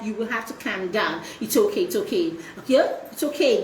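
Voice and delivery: put-on quiet the child like rocking them; gentle it's-okay hush to an upset child; soothing mother.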